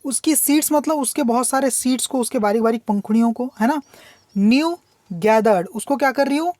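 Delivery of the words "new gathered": poem reading. Shown as a demonstration. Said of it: "teacher reads poem line slowly".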